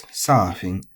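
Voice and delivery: "surfing" high on the first syllable, then falling; head-high accent. Shown as a demonstration. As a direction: start "surfing" high and drop. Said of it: "has an accent at the very beginning".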